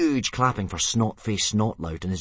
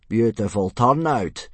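loud, slow, raised praise; congratulatory; 4 semitones higher, 7 dB louder than usual. A narrator's reading. Instructor to a favoured boy at inspection, congratulating. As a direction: praise it slowly and loudly. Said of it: "Gobber congratulated Thuggery".

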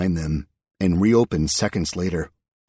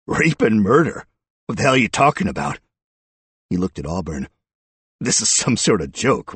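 incredulous; 3 semitones higher, 5 dB louder than usual. Acted. Accused man reacts incredulous.

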